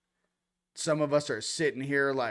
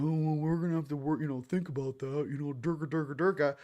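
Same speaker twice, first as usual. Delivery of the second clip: mock officials. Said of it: "They're like".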